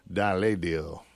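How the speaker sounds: badly faked French pronunciation; mock French accent. Host pretending it's called this over in France, French accent. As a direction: say it with a joking French twist. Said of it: "They do this over in France".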